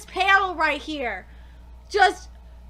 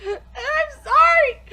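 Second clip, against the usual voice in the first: crying apology; 4 semitones higher, 5 dB louder, slower than usual. Acted. Reads character line while crying.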